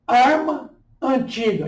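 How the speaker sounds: "Arma antiga" with the meeting vowels held apart; hiatus demonstration. Shown as a demonstration. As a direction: separate the two a's in "Arma antiga". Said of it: "Exemplo de hiatos".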